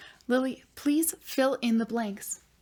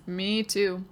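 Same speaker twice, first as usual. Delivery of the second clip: normal talking voice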